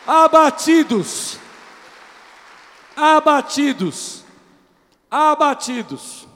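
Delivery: slow, loud, high preaching cries; preacher calling out slowly to the congregation; fervent preaching. Acted. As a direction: stretch each word out to the church. Preaching at full force.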